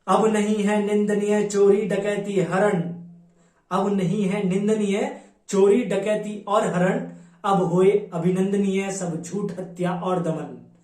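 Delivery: declamatory Hindi verse in Kalyug's words; poem recitation. Acted. Kalyug declares his intentions before Brahma, declamatory poem recitation. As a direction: declaim the verse in measured, rhythmic lines.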